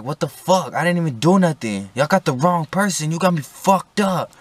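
indignant arrestee pleading innocence; angry protest. Retold or imitated.

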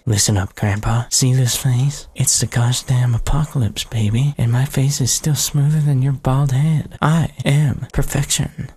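smug swaggering boss voice, put on; cocky character voice. Gamer voicing the boss, smug character voice. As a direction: strut through it like you're flawless. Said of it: "That's the voice I'm gonna give this guy".

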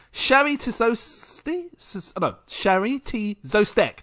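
ordinary talk

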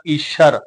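ਈਸ਼ਰ with a clear sh; sh sound. Shown as a demonstration. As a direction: say ਈਸ਼ਰ with sh, not s. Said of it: "ਬਿੰਦੀ ਸਹਿਤ ਉਚਾਰਨ ਹੋਏਗਾ".

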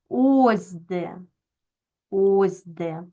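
"ось де" with a stretched, stressed О; stress on first word. Shown as a demonstration. Teacher shows where stress marks go, stress on first word. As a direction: lean long on the О of "ось де". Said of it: "обов'язково повинні проставити наголоси".

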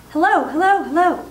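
high, loud parrot call; loud, clear parrot voice. A narrator's reading. Hidden parrot heard across the hall, loud and clear. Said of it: "came the voice again".

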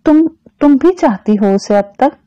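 hesitant question with a repeated start; falteringly, pausing on the first word; halting. A narrator's reading. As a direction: stumble into the question. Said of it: "वो रुक रुक कर बोला".

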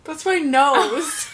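slow laughing protest; exclaiming. Real, not acted. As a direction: call it out, slow and amused. Blush brush hits her nose.

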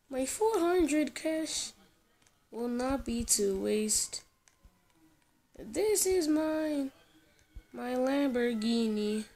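mock proud. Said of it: "I'm joking".

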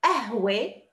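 قهوة said ahwe with no first consonant; teacher modelling the city form to repeat; dropped q. Shown as a demonstration. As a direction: drop the q and say ahwe. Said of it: "Repeat after me".

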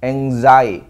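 anxiety as "ang-ZAI-uh-tee" with a z, falling; model pronunciation. Shown as a demonstration. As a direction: say anxiety with a z sound after the n. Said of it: "앞에 N이 붙으면은".

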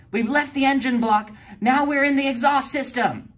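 high, eager explaining voice; girl reading from her research book; know-it-all girl. A narrator's reading. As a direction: read it out like the class expert. D A explains to the class.

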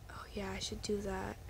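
whisper. Real, not acted. Whispered aside to herself.

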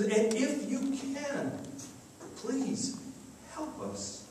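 imitated desperate parent, hushed at the end; pleading father. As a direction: beg gently, breaking it into small pieces. Desperate father begs Jesus for help.

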